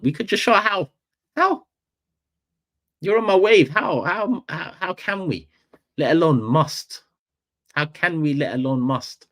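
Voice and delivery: incredulous mock outrage. Streamer mocking rival fans' claims, high incredulous squeal. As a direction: squeal the question in mock disbelief. Mocking how City fans argue.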